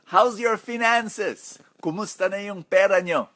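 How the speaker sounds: retold caring question. Retelling her question to maids.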